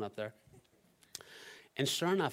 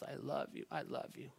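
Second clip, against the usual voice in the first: soft imitation of a loving child; tender affection; 3 semitones higher, 7 dB quieter than usual. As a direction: murmur it fondly like a small boy. Retold son climbing on father.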